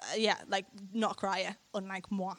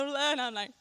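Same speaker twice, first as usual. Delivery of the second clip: normal talking voice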